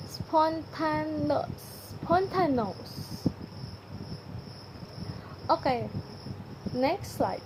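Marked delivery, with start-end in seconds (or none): 0.1-1.9 "spontaneous" drawn out very slowly, syllable by syllable; very slow careful reading. Shown as a demonstration. Teacher modelling the word for students, extremely slow. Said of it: "Read the following twenty items aloud". 2.0-3.3 "spontaneous" said a little slowly, closer to normal; slow reading. Shown as a demonstration. Teacher repeating the word for the class, slowed. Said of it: "Read the following twenty items aloud".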